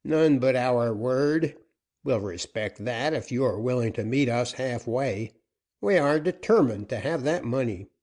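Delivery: a gruff-tempered captain pressing for terms; outlaw captain. Acted. Joaquin insists on money.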